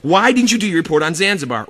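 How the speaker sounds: put-on teacher scolding kid about missing Zanzibar report; teacher yelling. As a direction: scold the kid, rushing each line. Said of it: "he's yelling at me".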